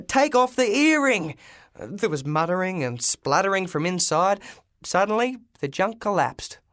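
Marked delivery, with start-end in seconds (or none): 0.1-1.4 higher, louder command; urgent shout. Acted. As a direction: shout the order into the taxi. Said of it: "I yelled".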